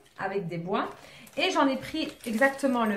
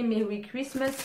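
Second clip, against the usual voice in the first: French-accented English. Real, not acted. Vlogger apologising for her English, French accent. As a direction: read the English words the French way, unsure. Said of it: "Désolée pour mon angle-, mon anglais, il est à chier".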